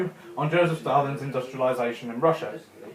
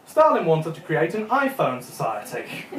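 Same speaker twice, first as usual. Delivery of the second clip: subtitle misreading. Retold or imitated. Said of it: "Do you know what subtitle said?".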